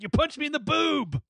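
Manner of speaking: high, mock Southern belle voice; Southern accent. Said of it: "she's like".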